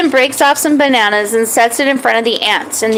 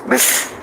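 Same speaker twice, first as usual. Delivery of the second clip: small bark; 6 dB quieter than usual. Acted. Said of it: "gave a small bark".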